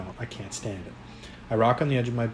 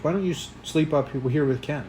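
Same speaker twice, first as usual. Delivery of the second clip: higher, angry challenge; raging; 5 semitones higher than usual. A narrator's reading. Teen telling mom off for eavesdropping, raging. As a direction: throw the question back angrily. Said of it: "I rage".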